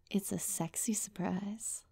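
slow, half-whispered hint; sultry tease. Acted. Partner teasing their babe with a surprise, sultry. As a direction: drop soft and breathy, drawing it out.

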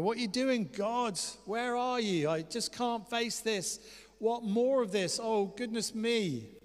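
high, anxious acted plea; frightened little boy. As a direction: wail to God like a scared child. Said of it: "I feel like the little boy".

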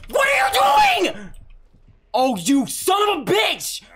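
high furious yell; outraged shout. Real, not acted. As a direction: scream at betrayal. Betrayed outrage.

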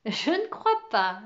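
réponse amusée, un peu étirée; réponds avec un léger amusement; en riant. Acted. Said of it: "dit-elle en riant". (léger rire dans la voix)

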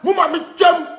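high-pitched, agitated tirade; angry rant. Real, not acted. Radio station called out over Ghana, angry rant. Heated rant calling people out.

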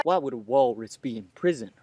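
mouth full. Acted. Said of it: "around a mouthful of toast".

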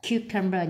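"cucumber" stressed on CU, the first syllable. Shown as a demonstration. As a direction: put the beat of "cucumber" on CU. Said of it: "nhấn âm một".

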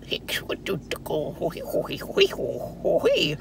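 put-on mumbling old man, pitch jumping about. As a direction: babble a half-intelligible greeting as an old country man. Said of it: "J D, Mister J D. Old, old white man".

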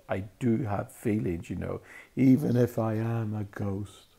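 a touch of a choked-up sob in the voice; choking with tears. A narrator's reading. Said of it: "in a voice choking with tears".

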